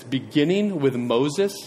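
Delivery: slow, measured reading of the verse; slow scripture reading. Shown as a demonstration. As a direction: read it slowly and reverently. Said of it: "And then it says".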